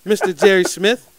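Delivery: heated rant. Retold or imitated. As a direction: lay into him, building the case. Retold heated confrontation with exec.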